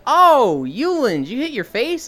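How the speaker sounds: high, loud mock alarm; startled coach, starting on a big "Oh"; imitating PE coach. Coach spotting blood on a student, mock-alarmed. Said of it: "the P E coach is like".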